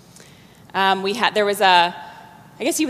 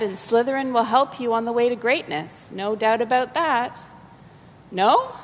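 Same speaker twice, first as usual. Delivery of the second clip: small voice; 2 semitones higher than usual. Acted. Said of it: "the small voice said".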